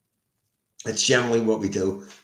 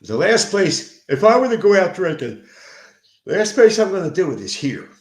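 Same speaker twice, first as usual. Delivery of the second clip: loud emphatic rant; 9 semitones higher, 8 dB louder than usual. Real, not acted. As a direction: hammer it out, outraged. Ranting about drinking at home.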